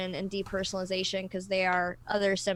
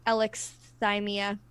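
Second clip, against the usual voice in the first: "alexithymia" said slowly, syllable by syllable; slow, careful pronunciation. Real, not acted. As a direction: take your time getting through "alexithymia". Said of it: "I always have to say it really slow".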